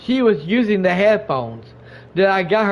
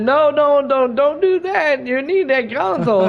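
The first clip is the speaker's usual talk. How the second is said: urgent pleading, retold; 6 semitones higher than usual. Urgently talking her out of smashing it.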